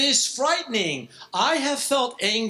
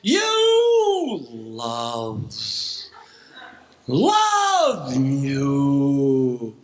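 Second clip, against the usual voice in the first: angry outburst; 8 semitones lower, much slower than usual. Retold or imitated. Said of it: "when I get angry, I say things like".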